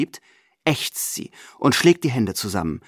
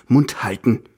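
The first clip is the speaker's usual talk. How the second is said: snapping at him; 4 dB louder than usual. Acted. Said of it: "fährt mich Großmutter an".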